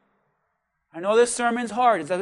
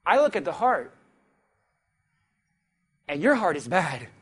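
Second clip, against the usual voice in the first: God rebuking; 3 semitones lower, 5 dB quieter than usual. Acted. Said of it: "God says".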